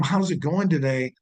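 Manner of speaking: asked with real interest; caring question. Shown as a demonstration. Trainer showing reps how to ask a customer caringly. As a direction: ask it like you truly care. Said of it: "like you really care".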